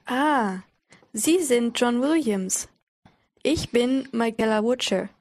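slow and carefully paced; slow reading. Shown as a demonstration. Teacher reading the dialogue slowly for learners. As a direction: read it slowly, word by word, for learners. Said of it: "the dialogue will be read slowly".

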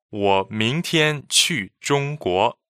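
"我明天去中国" said slowly, word by word; slow, careful model sentence. Shown as a demonstration. Host reads the lesson sentence slowly. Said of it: "help us understand this sentence".

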